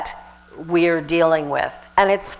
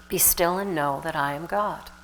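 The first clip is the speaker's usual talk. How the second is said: soft meditative repeat; 2 semitones lower, 8 dB quieter than usual. Shown as a demonstration. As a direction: let it sink in softly. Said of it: "meditate on the idea of".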